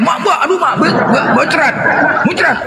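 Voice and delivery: hammed-up wail after being punched; mock pained yelp. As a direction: cry out like your jaw was just smashed. Retold man hit in jaw.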